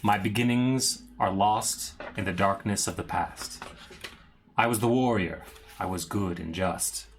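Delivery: slow, solemn villain monologue; dramatic reading. Acted. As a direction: read it like an old curse. Reads Strahd's journal slowly.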